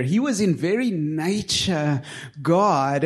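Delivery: slow, emphatic stretch on "very nature God"; slow re-reading. Shown as a demonstration. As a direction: draw out "nature", then pause before "God". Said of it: "read that again slowly".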